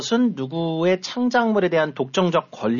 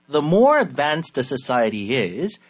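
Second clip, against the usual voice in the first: slow teaching read; much slower than usual. Shown as a demonstration. Teacher breaks sentence down for learners.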